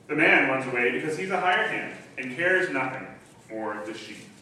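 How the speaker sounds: measured, solemn reading of the Bible passage; formal Bible reading from the pulpit; scripture reading. Acted. Reads John ten aloud.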